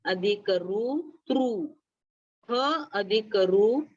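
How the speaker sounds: त अधिक रु and ह अधिक रु said slowly, sound by sound; careful dictation of the letters; slow spelling out. Shown as a demonstration. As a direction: build the cluster slowly, one sound at a time. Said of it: "ध्यान से सुनो".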